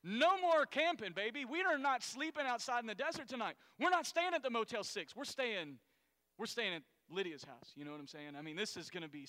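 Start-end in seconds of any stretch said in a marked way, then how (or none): 0.0-7.7 whooping with delight; excited. Pretend. Companions cheering about staying at Lydia's house, excited shout. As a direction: celebrate like a tired camper finally getting a bed. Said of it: "you're like".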